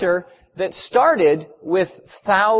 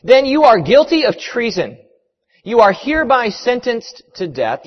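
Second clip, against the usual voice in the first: raised, emphatic pronouncement; stern official sentencing, pitched up; sentencing judge; 4 semitones higher than usual. Acted. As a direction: hand down the sentence with formal force.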